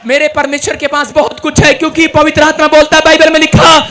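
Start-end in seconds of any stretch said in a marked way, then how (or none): 3.0-3.8 loud, high, booming preaching; booming political rally speech. Acted. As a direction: preach it to the crowd at full force. Preaching at full force.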